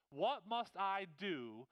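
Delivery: each word drawn out slowly; 把"What must I do?"慢慢一字一字地拉长; slow emphasis. Shown as a demonstration. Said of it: "the one phrase, "What must I do?".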